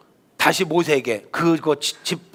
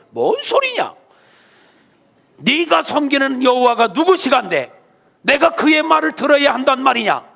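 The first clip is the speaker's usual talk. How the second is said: defiant Pharaoh; 5 semitones higher than usual. Acted. Pharaoh refusing Moses.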